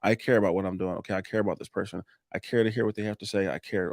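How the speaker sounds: gentle, sincere self-reassurance; calm self-talk. Shown as a demonstration. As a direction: quietly remind yourself you care. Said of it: "tell yourself in the head".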